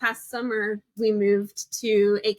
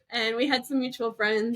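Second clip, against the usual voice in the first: laughing. Real, not acted. Still amused after dating app.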